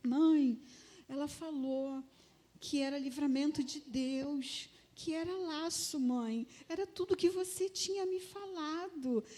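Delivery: a touch of tearful pleading; imitated tearful confession. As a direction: imitate a teenager confessing through tears. Daughter tearfully confesses to her mother.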